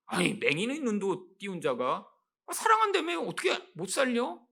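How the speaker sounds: lightly voiced mocking taunt; sarcastic jeer. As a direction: scoff at Jesus like the doubting crowd. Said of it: "라고 빈정거리는 이런 반응".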